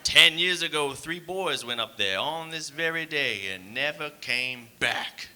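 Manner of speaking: slow, ominous campfire-tale delivery; hammed-up spooky warning; horror-movie warning guy. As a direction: stretch it out, letting the last word drop to a breath.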